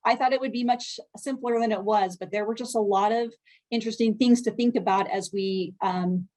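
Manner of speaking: muffled, covered microphone. Real, not acted. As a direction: speak through a muffled mic. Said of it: "I'm muffled".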